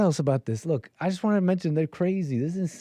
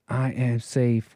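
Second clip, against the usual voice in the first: mock dramatic; 3 semitones lower, much slower than usual. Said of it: "So dramatic".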